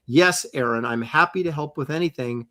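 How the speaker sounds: mildly aggressive reading; a little aggressive. Shown as a demonstration. Co-host reading out a supporter's message, a little aggressively. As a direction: say it with a slight edge of aggression. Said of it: "I said that a little aggressively".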